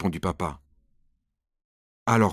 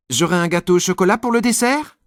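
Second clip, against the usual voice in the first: put-on higher, louder pleading little boy; eager child; 8 semitones higher, 4 dB louder than usual. Nicolas asks mom for chocolate cake, high eager child. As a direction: ask hopefully like a small child.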